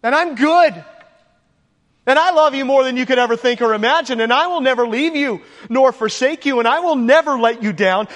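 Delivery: tender fatherly promises, lightly voiced; God speaking. Preacher voices God reassuring his adopted children, warm and earnest. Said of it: "God says".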